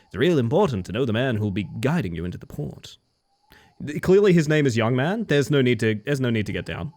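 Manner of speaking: lightly voiced friendly fisherman; a hint of a boastful sea captain.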